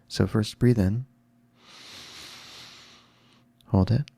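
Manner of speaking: calm breathing cues with long pauses; guided breathing. Real, not acted. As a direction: lead them gently through each breath, rising on "in". Leads a breathing exercise.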